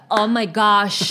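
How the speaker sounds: slow, drawn-out gosh in a lightly voiced American; a hint of an awed American; mock gringo gasp. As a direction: stretch "gosh" like a polite tourist. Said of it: "el que no dice God, sino gosh".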